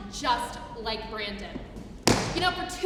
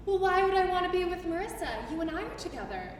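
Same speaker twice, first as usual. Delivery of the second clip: mock casual; 3 semitones higher, 4 dB quieter, much faster than usual. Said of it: "he says all casually".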